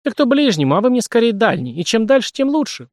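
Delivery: high, loud, mocking girl's voice; girl mocking Sashka, high and sarcastic; sarcastic jab. A narrator's reading. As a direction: needle him with each phrase. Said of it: "продолжала язвить девчонка".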